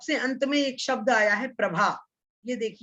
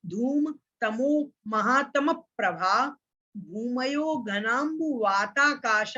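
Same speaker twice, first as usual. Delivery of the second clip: a second recital, word by word, slowing on the last words; sutra recitation; slower than usual. Shown as a demonstration. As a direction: read the sutra aloud again so students can follow. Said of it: "अधोलोक का वर्णन यहाँ पर किया गया है".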